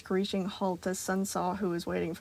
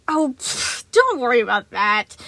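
laughing it off; 4 semitones higher, 10 dB louder than usual. A narrator's reading. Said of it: "he laughed".

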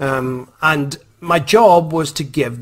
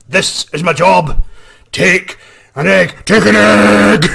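slow, louder, menacing bunny; sinister insistence; 7 semitones higher, 10 dB louder, slower than usual. Retold or imitated. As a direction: creep toward the kids, insisting.

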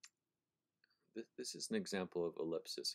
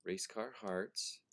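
slow read; 2 semitones higher, much slower than usual. Shown as a demonstration. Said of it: "You have".

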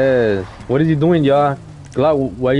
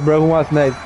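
calling out; 3 semitones higher than usual. Real, not acted. Calling out to the lobby.

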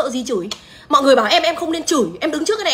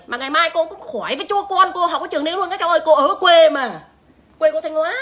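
put-on a higher sing-song auntie scolding the kids; mock auntie lecture; 5 semitones higher than usual. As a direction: talk down to the kids like a sarcastic village aunt. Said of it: "Bà Bi Vlog hỏi".

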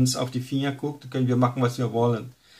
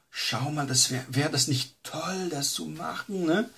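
soft, coaxing tempter's voice; a hint of a seductive devil; tempting Satan; 4 semitones higher, 5 dB quieter than usual. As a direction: lure him gently toward the sin. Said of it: "vorher sagt er".

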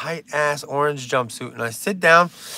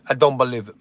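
put-on Russian accent; 5 semitones lower, much faster than usual. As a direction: lower mock Russian accent. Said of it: "what my Russian friend used to always say".

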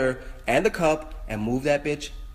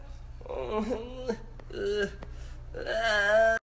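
high, drawn-out whimper; frightened squeal; 8 semitones higher than usual. Real, not acted. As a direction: whimper high at the sight of a bug. Scared of bug on piano.

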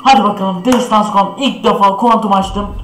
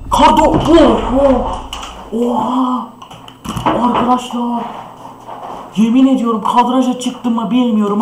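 excited shouting; 4 semitones higher than usual. Real, not acted. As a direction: scream at a jackpot drop. Rare skin drops from case.

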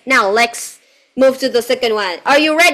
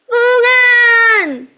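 mock yell; 10 semitones higher, 4 dB louder, faster than usual. Teacher tests student with wrong name, mock calling out. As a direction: call the name out as a playful test. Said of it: "Does he yell loudly".

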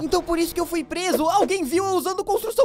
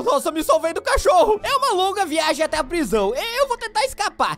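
ordinary talk, nothing marked

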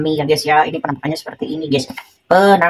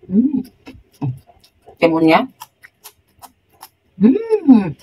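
chewing cucumber; biting raw vegetables; mouth full. Real, not acted. Seen 1: Chews throughout; bites chili at 2.1s, cucumber at 4.9–6.3s.

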